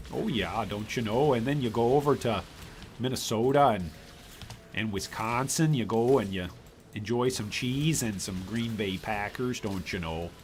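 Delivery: lightly put-on Wisconsin accent, easygoing. Streamer teasing about Packers country, mock Wisconsin accent. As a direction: imitate Upper Midwest locals in a Wisconsin accent. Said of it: "That's what those people in Wisconsin say".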